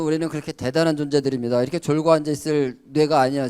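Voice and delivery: normal talking voice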